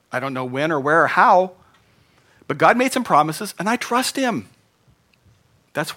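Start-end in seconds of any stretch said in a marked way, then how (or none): 0.1-4.5 confident declaration. Acted. Preacher voicing believer's declaration.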